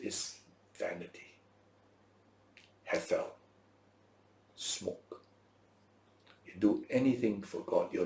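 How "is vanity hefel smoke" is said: softer, voiceless words trailing away; whispered. Acted. Preacher defining vanity for the congregation, whispered. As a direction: breathe each word out like smoke.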